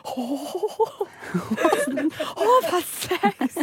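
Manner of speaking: slow, high, sleepy mock sigh; dozy satisfied man. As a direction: play a drowsy contented man. Mock post-sex man.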